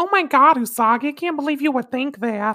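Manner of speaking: put-on very high-pitched Brooklyn accent. Showing how a line translates in Molly's Brooklyn accent. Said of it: "Brooklyn accent Molly".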